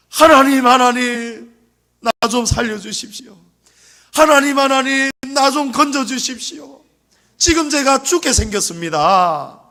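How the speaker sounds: a man clinging on, begging to be rescued; desperate cry for help. Acted. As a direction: beg God to save you, crying out. Jacob cries out to God.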